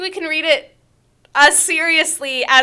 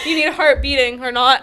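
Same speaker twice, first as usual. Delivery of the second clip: laughing; faster than usual. Real, not acted. Quoting the line mockingly.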